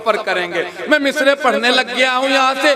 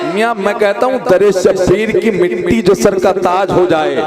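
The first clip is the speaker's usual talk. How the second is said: ordinary talk, nothing marked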